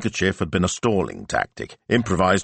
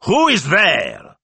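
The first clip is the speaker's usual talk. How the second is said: high, slow, louder voice from behind the curtain; a cautious woman calling out slowly; high slow "Who is there?"; wary wife's voice; 13 semitones higher, 6 dB louder, much slower than usual. Acted. Wife answering behind the curtain.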